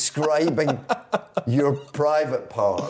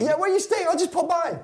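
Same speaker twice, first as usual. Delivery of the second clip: put-on Italian accent. Mocking Italian fan.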